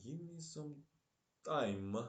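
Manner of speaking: thicker Russian accent, high start dropping on "time"; drawn-out words in a Russian accent. Real, not acted. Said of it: "I speak with some Russian accent".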